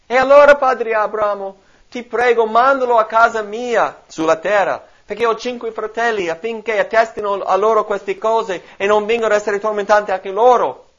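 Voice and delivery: loud, high pleading cry from torment; preacher voicing the rich man's anguished plea; rich man exclaiming. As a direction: beg Father Abraham from the flames, loud and high. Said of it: "esclamò".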